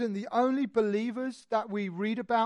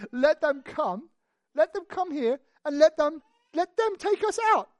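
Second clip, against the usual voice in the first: defiant challenge; 5 semitones higher, 3 dB louder than usual. Acted. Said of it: "he says".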